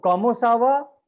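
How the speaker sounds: French comment ça va said as kamo sava; French greeting. Shown as a demonstration. Teacher modelling French greeting कमो सावा. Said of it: "senior के लिए".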